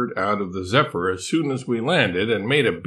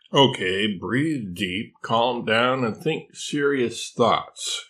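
calming herself down; slower than usual. Acted. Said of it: "she told herself".

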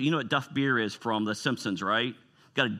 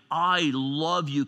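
heartfelt declaration; 2 semitones higher, much slower than usual. Acted. Acts out heartfelt connection God wants.

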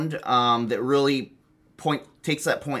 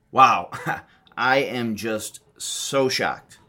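mock shock; 2 semitones lower, slower than usual. Feigned shock at the news.

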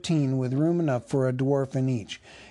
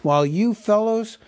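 put-on higher, louder scolding old butler; cross butler; 5 semitones higher, 4 dB louder than usual. Butler scolding the elves for making merry. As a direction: scold the idle young fellows.

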